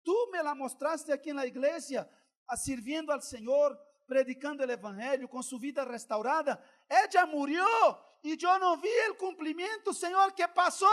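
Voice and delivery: retold weeping prayer that swells to a loud plea; anguished prayer rising to a cry. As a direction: let the grief build until you cry out to God. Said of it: "comencé a llorar y dije".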